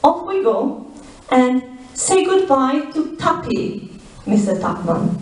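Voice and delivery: a lightly voiced villain taunting as he rides off; gloating villain farewell. Villain waves goodbye mockingly.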